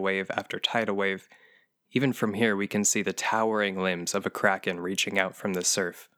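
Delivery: lightly done public-radio narrator; NPR voice. Acted. Describing the sanctuary for listeners in a mild NPR voice. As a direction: describe the landscape like a calm radio host. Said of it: "I'll use my N P R voice".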